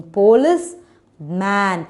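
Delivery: "police", held apart from "man"; split into syllables. Shown as a demonstration. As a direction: break "police man" in two with a pause. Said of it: "divide it into two like this".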